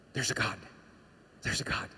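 hushed, near-whispered repetition; nagging inner voice. Acted. Inner voice that keeps telling the atheist, hushed. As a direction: murmur it like a thought that won't leave. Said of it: "that just keeps telling you".

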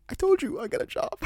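high, loud triumphant boast; announcing the new job to the cousin, thrilled and high; excited boast. Retold or imitated. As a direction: crow it to your cousin. Bragging to cousin.

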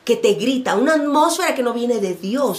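loud, forceful preaching cry; shouted accusation. Acted. Preacher voicing the oppressive atmosphere, shouting. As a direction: shout it out like a hostile voice. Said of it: "Esa es la atmósfera que te grita".

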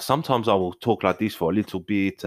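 attempted South African accent; slightly wobbly South African accent. Shown as a demonstration. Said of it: "I think I can do South African".

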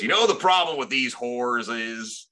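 lightly voiced redneck from Saint Louis; a hint of griping redneck; redneck impression. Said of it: "terrible fucking redneck from Saint Louis".

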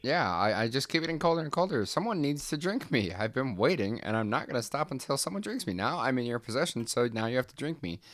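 the sentient cup insisting the doctor drink it, high and pushy; demanding coffee cup. Acted. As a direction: squeak out the cup's demands in a rush.

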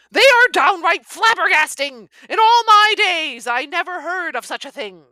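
loud, high country policeman; excited outburst. Acted. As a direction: burst out, flabbergasted. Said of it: "at the outburst".

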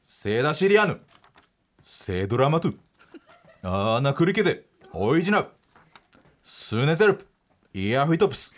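セダシリアヌ through イヤフィトプス in reversed syllables; backwards speech. Shown as a demonstration. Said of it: "全部今から言いますよ".

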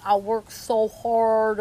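slow, badly faked New York accent; attempted New York accent. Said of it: "oh, I can't do his accent".

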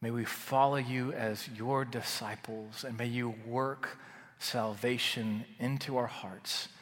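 calm, earnest prayer voice, softening to the end; closing prayer. Acted. Pastor praying over the congregation at the end, earnest and hushed.

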